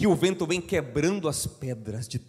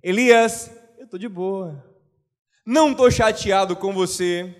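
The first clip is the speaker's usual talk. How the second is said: calm reassuring God. Retold or imitated. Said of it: "Deus estava dizendo a Elias".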